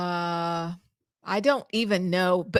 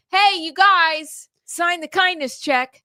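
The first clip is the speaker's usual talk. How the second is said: Karen voice; 8 semitones higher, 5 dB louder, slower than usual. Retold or imitated. Imitating a pushy HOA Karen.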